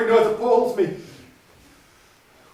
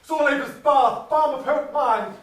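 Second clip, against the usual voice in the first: eerie crying voice; 4 semitones higher than usual. Retold or imitated. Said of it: "I heard a voice cry".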